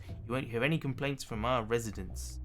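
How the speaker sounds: polished, upbeat tour guide; a lightly voiced cheerful guide. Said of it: "I'm enjoying the tour guide's voice".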